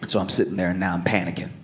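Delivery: low, soft worried mutter; quiet dread in the stall; a hint of hushed panic.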